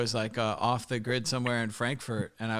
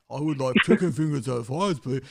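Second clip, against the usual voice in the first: mock the American's order, breaking into a laugh; Irish guy mimicking an American; 2 semitones higher, 5 dB louder than usual. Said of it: "And he's like".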